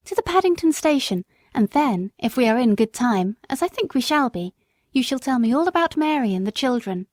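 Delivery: surprised lady. Acted. Former mistress recognises Jerry, pleasantly surprised. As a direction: greet an old friend gladly. Lady's voice.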